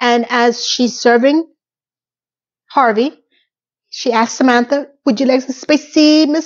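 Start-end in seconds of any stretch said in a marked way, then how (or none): 5.0-6.5 put-on, pitched-up Thai accent. Retelling a woman from Bangkok offering food at a meal, imitating a Thai accent. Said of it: "she has a very, um, a- an accent".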